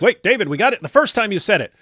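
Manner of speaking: high, loud whiny complaint. Retold or imitated. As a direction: whine like a fed-up viewer. Mimicking annoyed viewers.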